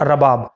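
رباب as "ra-baab", a after R; رباب with zabar, "ra-baab"; careful pronunciation. Shown as a demonstration. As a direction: say رباب "ra-baab", long second a. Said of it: "را کے اوپر زبر کے ساتھ".

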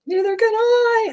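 very high wailing cry; howl. A narrator's reading. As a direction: howl in fright. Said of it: "howled Flitter".

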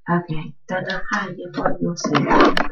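stereotypical mock Chinese gibberish; garbled fake Chinese, a short burst; fake Chinese accent. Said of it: "I just try to speak that stereotypical fake Chinese".

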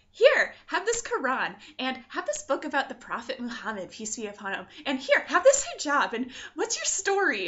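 animated, hammed-up generous host; exaggerated eager helper. Brother handing gifts to a newcomer, exaggeratedly eager. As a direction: gush it, jumping up in pitch at each offer. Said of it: "doesn't talk like that. He was very calm".

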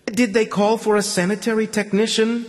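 border guard's question. A narrator's reading. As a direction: ask it like a guard at a checkpoint. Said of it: "the simple question".

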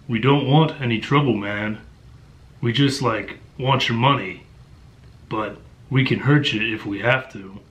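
mock audiobook American character voice; badly faked menacing street youth; monotone American thug. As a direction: imitate a narrator's bad American accent. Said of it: "Just a simple monotone that is just atrocious".

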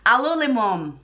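ALULIMUM with L and M swapped in; coworker's mispronunciation. Retold or imitated. Wife imitates coworker's slip, ALULIMUM ending in "moom". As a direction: say "a-loo-li-MOOM" for aluminum. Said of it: "He said it like this".

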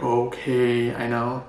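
lightly put-on manly son; lightly voiced manly son answering Mom. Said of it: "I do this manly voice".

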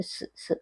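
"സ്" as a bare voiceless-sounding hiss, no vowel; dotted-ja sound. Shown as a demonstration. Teacher showing learners the dotted ja's sound, "സ്" alone and soft. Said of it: "സ് എന്നുള്ള ശബ്ദമാവും".

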